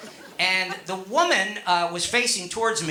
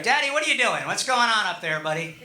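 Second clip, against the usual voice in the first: higher-pitched mock kid voices; kids questioning dad; 3 semitones higher than usual. Kids asking their dad what he's doing, imitated kid voice. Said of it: "my kids are like".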